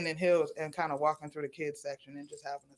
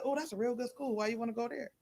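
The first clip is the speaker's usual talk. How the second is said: higher-pitched mock-impressed questioning; mildly surprised counselor; 6 semitones higher, 4 dB quieter than usual. Counselor reacting to her pick of New York University, mildly surprised. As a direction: imitate a counselor's lifted, curious reaction.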